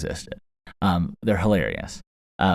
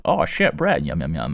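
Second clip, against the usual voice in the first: iguana voice; 3 semitones lower than usual. Retold or imitated. Iguana on Snapchat finding bread, mock surprise. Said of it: "and it was like".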